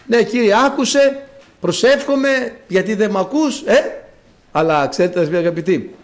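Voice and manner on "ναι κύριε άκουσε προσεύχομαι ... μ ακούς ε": mock complaint. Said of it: "συνέχεια πάμε".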